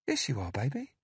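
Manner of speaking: high, sugary caretaker voice; falsely sweet and cajoling; sweet coaxing woman. A narrator's reading. Narrator voices Candy.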